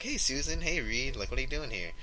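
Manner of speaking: imitated friendly hello; friendly greeting. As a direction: greet them like a nice kid, lightly put on. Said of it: "is being all nice".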